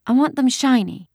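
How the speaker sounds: put-on high small-child voice; little girl. A narrator's reading. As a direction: insist on it like a little kid. Small girl states her wish.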